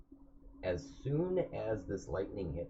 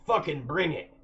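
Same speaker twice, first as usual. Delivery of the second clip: battle-hungry shout; 10 semitones higher, 9 dB louder than usual. Acted. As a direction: roar it, high and loud. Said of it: "Ashnak looks up and he's like".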